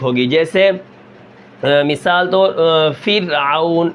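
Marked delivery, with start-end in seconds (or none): 3.0-3.9 slow فرعون with the ر kept thin and light. Shown as a demonstration. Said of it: "یہ را بریک ہے". (باریک را کے ساتھ فرعون)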